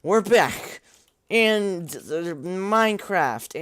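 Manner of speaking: put-on over-the-top Italian accent like Mario. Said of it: "talking in Italian accent".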